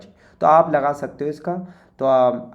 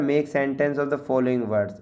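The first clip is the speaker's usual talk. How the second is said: slow, deliberate reading of the task; slow read-aloud; much slower than usual. Shown as a demonstration. Teacher reading the worksheet instruction slowly to students. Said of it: "reading the task aloud slowly".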